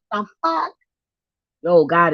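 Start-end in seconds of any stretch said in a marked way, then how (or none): 0.1-0.7 retold amazement. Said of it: "I'm like".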